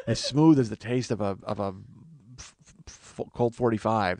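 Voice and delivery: lightly voiced smooth suave low-key talk; a hint of a smooth ladies' man; Lando Calrissian voice. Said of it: "as Lando Calrissian".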